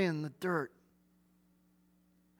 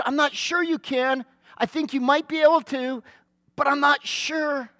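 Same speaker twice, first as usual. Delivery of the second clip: doubtful paraphrase; 5 semitones higher, 3 dB louder than usual. Shown as a demonstration. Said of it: "Do you hear the doubt in that statement?".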